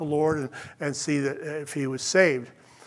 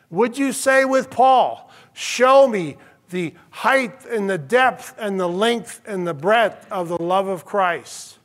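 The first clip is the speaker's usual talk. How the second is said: full-force preaching; 3 semitones higher, 3 dB louder than usual. Acted. Preacher exhorting the congregation, full force. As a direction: build the charge over them.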